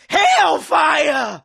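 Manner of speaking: loud outburst; angry curse. Acted. Furious curse in confrontation.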